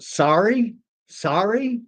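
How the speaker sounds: mock confusion. Mock mishearing "sari.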